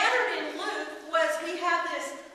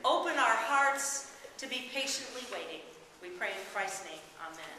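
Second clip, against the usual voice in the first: prayer. Acted. Leads a short prayer.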